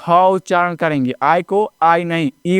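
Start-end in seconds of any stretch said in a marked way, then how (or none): 0.1-0.1 ह as an open "huh", not "aitch"; letter sound ह, "huh". Shown as a demonstration. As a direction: sound out ह with a puff and open vowel. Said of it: "एच नहीं".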